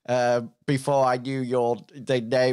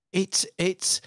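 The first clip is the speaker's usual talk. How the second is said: higher, halting visitor voice; hesitant visitor; 5 semitones higher than usual. Acted. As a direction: stammer it out tentatively. GM voices timid visitor at door.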